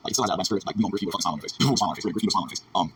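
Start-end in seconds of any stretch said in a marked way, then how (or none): 1.6-2.6 laughing. Real, not acted. Laughs while repeating the grift joke.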